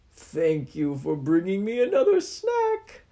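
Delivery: slow, loud monster threat; menacing Oni. Acted. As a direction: draw out the threat slowly.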